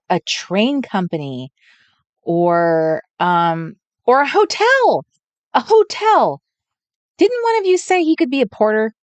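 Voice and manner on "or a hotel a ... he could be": light up as the answer clicks; eager, louder guess at hotel; excited realization. Real, not acted. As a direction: pitch jumps up high on hotel.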